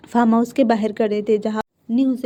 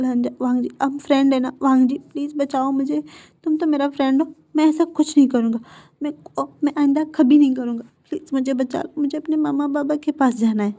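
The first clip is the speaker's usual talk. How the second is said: frightened pleading; 4 semitones higher than usual. Acted. Captive begs his friend for rescue.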